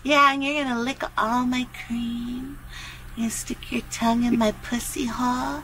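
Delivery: low-key, teasing dirty talk. Pretend. Talking dirty to a phone partner, teasing come-on. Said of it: "Why are you talking dirty?".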